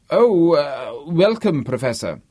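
high, loud flustered greeting; startled welcome. A narrator's reading. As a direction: caught off guard, recover into politeness. Startled Robin spins round to greet.

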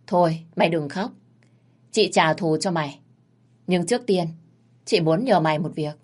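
lightly voiced big sister, calm and in charge; Ngân, big sister. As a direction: reassure the boy like a boss sister.

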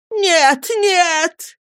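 high, distraught woman's protest; high-pitched pleading wail; tearful cry. A narrator's reading. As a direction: cry out to stop him, in tears. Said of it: "закричала вся в слезах миссис Гумидж".

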